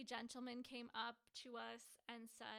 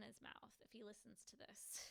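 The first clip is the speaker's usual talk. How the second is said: half-whispered confidential aside; 10 dB quieter than usual. Real, not acted. Sharing an anniversary story with viewers, she whispers. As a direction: drop to a secret whisper so he won't hear. Aside about husband maybe listening.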